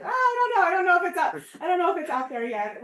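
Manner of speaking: reluctant researcher. Retold or imitated. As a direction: lightly mimic someone wriggling out of an interview. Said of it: "they're like, begging".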